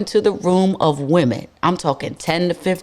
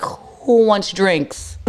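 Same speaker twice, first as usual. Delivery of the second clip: calling out drinks; much slower than usual. Retold or imitated. Comes home flush with tip money.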